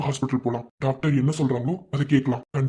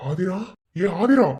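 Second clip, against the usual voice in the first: raised, urgent call of her name; 3 semitones higher, 3 dB louder, slower than usual. Acted. Husband calling to his crying wife, calling out urgently. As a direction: call out to get her attention.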